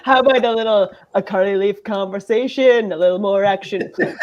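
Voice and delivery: lightly voiced rock-and-roll icon doing a mashup hit; a famous singer. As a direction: joke through a parody lyric as the icon. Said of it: "Elvis Presley working in Scotland".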